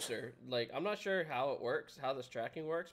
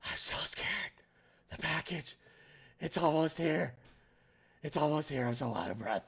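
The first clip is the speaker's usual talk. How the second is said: mock scared. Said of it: "It'd be like this".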